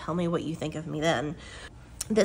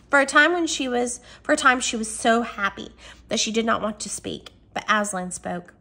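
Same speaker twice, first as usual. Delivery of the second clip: expressive read-aloud from a novel; animated storybook reading; story narration; 2 semitones higher, 4 dB louder than usual. Acted.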